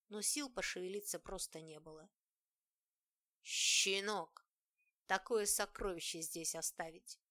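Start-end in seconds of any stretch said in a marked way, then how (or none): 3.4-7.2 loud furious howl; howling rage. Acted. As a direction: howl like a wounded beast. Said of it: "взвыл раненым зверем".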